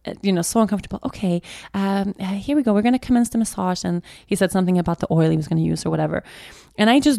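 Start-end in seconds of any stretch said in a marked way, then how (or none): 1.0-3.8 a hint of a hushed spa therapist; mild mock soothing masseur voice; massage voice. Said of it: "he has this kind of massage voice".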